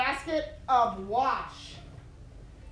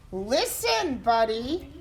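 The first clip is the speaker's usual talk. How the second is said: warning; slower than usual. Acted. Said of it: "his parents warned him".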